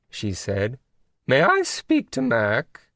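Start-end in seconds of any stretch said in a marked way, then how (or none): 1.3-2.9 high, slow regal English lady; prim high royal request; queenly voice. A narrator's reading. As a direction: ask it with royal politeness. Queen of England on phone.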